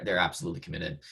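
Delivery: strained, fading hoarse voice; losing voice. Real, not acted. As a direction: voice going hoarse. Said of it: "losing my voice here a little bit".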